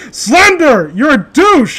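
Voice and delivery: high, loud yell out the window; mock yell. Streamer yelling an insult out the window at Slender Man, mock yell. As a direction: shout it at the figure outside, mocking.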